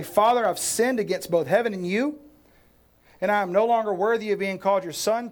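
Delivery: pleading son. Retold or imitated. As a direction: rehearse the apology like a son begging. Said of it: "I'll go home to my father and say".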